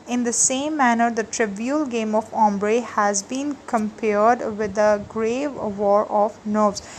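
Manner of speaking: slow, deliberate note reading for students; slow dictation. Acted. Teacher dictating notes to her class, slow and clear. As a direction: dictate each phrase so they can write it.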